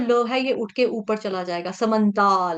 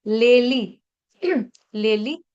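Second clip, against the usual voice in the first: broken-up syllables; 4 dB louder, much slower than usual. Shown as a demonstration. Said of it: "थोड़ा सा तोड़ तोड़ के दिखा देती हूँ".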